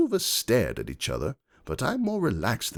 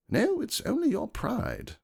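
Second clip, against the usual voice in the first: rude. A narrator's reading. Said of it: "rudely I might add".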